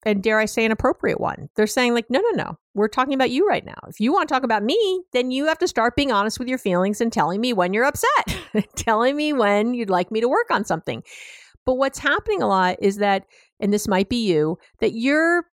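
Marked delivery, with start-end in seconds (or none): 2.1-11.0 higher-pitched, lightly acted partner's objection; firm boundary-setting. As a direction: push back and draw the line, pitched up. Acts partner drawing a boundary.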